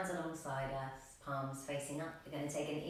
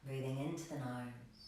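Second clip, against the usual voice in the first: calm, slightly lowered meditation voice; guided meditation; 3 semitones lower, 5 dB quieter than usual. Real, not acted. Yoga teacher settling a class into breathing, calm meditation voice. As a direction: guide them gently into the breath, with long pauses.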